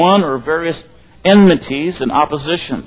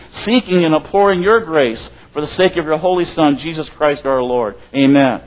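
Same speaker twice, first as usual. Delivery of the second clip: liturgical prayer. Acted. Recites confession from old liturgy.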